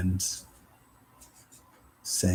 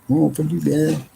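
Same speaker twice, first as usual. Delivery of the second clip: mock angry retort; 8 semitones higher, 5 dB louder, slower than usual. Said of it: "then they're like".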